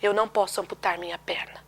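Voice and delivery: understated tearful voice; tearful refusal. Retold or imitated. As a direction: say it quietly, as if holding back tears. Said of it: "com lágrimas nos olhos".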